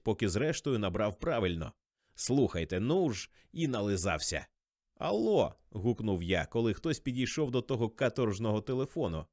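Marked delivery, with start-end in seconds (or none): 4.9-5.5 put-on high-pitched drunk holler into the phone; raised, tipsy telephone greeting; drunken shout. A narrator's reading. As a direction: call out hello, drunk and too eager. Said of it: "а крикнув, такий був п'янющий".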